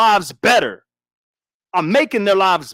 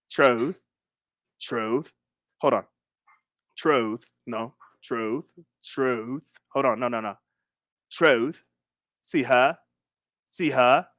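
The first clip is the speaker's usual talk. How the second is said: much lower, quieter deep voice; 8 semitones lower, 3 dB quieter than usual. Shown as a demonstration. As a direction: growl it low and slow. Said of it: "practicing deep voice".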